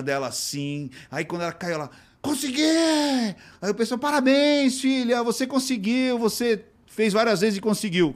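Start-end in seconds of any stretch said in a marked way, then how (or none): 2.2-3.4 put-on high, slow, stretched-out little girl's cheer; a tiny girl shouting her win; toddler cheering. Little girl cheering her own landing. 4.0-8.1 put-on high, bright cheer for a child; cheering parents. Parents cheering their daughter's jump, high and excited.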